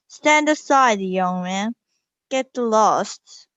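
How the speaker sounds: guard's shout. Acted. Guard shouts at the boy to get lost, loud. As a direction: shove them off with your voice.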